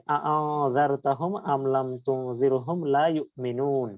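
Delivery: slow recitation. Acted. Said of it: "তারপরে আবার হামজা আছে".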